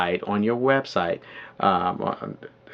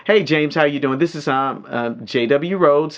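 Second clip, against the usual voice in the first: higher, projected sales-call introduction; confident greeting; 5 semitones higher, 3 dB louder than usual. Shown as a demonstration. Coach modelling a callback to a prospect, confident and projected. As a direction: introduce yourself with confidence, voice lifted. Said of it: "a little louder".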